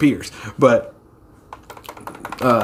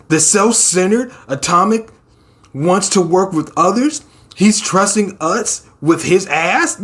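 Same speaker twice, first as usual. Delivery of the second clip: raised, questioning disbelief; mock incredulous; 5 semitones higher than usual. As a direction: act astonished at the unlikely offer. Acted disbelief at rival's offer.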